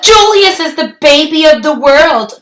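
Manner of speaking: bright sing-song doting parents; chimed. Acted. Parents cooing over their newborn, chiming happily. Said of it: "chimed Lily's parents".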